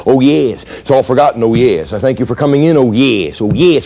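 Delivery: lightly voiced placating boss; a touch of the boss brushing it off; hint of a smug boss. Boss rocking on his heels, mildly placating. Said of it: "he'll say".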